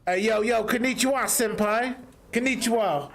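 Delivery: high-pitched anime meme greeting; meme imitation. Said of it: "how did that meme video go?".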